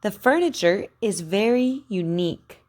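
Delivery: "unique" ending in a clear K; over enunciating. Shown as a demonstration. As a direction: model "unique" with a crisp K. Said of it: "Listen careful".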